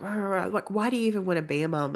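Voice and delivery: dismissive rah rah voice; wife mocking husband's rant; mock husband nagging. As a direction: brush the husband's nagging off as noise. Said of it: "he's like".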